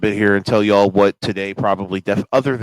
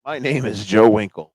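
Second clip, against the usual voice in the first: lightly voiced hype-man promo; wrestling promo. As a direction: announce yourself like a wrestling manager. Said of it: "I'll cut a promo for y'all".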